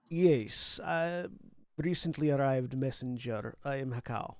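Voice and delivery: put-on light Macedonian accent. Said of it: "allowing my Macedonian accent to slip back in".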